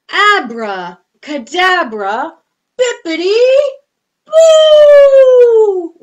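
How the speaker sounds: building to a big shouted boo; magic word chant climbing to a shout. Pretend. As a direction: cast the spell, rising to a loud high shout. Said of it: "using our best voices".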